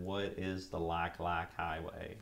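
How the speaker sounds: slow, drawled Southern country accent; hammed-up country accent, slow and drawn out. Shown as a demonstration. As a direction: ask it like a country boy, in a Southern twang. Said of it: "in probably my best country voice".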